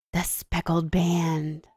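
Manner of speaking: slow, softened storybook whisper; hushed whisper. A narrator's reading. Holmes on seeing the yellow band, hushed whisper. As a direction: draw the words out under your breath. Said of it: "whispered Holmes".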